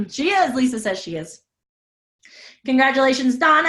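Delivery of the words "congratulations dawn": excited congratulations. Real, not acted. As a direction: cheer her on as the confirmed winner. Winner confirmed in the chat.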